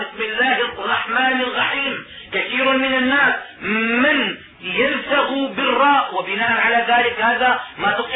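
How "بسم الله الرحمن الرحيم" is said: الرحيم said as alghahim, a غ in place of the ر. Shown as a demonstration. Teacher imitating a reciter who lisps the ر. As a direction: replace the ر of الرحيم with a غ. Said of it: "بالغين موضع الراء".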